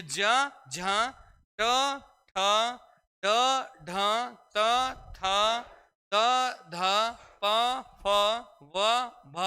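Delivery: pairs like ज, झ and प, फ, the second breathier; light letter, then its forceful aspirated partner, spaced out; aspiration contrast drill. Shown as a demonstration. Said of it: "ज्यादा बलाघात लगा".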